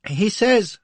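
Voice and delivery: high, hesitant start; gulping, nervous. A narrator's reading. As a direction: gulp before you speak. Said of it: "he gulped".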